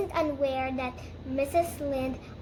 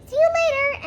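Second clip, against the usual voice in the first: high, loud parting shot; huffy farewell; 12 semitones higher, 7 dB louder than usual. Acted. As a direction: call it out in acted indignation. Rachel storms off after quarrel.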